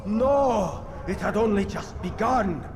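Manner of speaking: denial rising into a desperate shout; anguished cry. Acted. Dying man protests his defeat.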